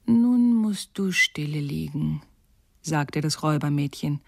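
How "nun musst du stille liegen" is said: slow rough warning; gruff slow command; robber girl. Acted. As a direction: hold her down with the words.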